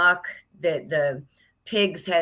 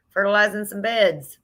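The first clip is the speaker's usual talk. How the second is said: laughing through the words, higher; 3 semitones higher than usual. Real, not acted. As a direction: giggle it out. Laughs at pig joke.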